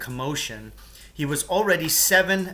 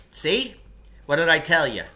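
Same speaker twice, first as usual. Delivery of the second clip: slightly higher told-you-so; hint of smug Lance; 3 semitones higher, 4 dB louder than usual. Lance telling the boys he was right, lightly voiced. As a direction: point it out smugly.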